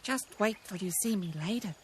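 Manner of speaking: a hint of a puffed rabbit; rabbit calling back. A narrator's reading. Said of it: "Roxy called as she hopped".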